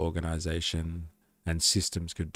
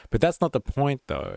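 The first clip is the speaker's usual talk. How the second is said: "not" punched high and loud, falling after; stress on not; 7 semitones higher, 6 dB louder than usual. Real, not acted. Arguing with chat about super, hitting "not" hard. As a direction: lean hard on "not" to make the point.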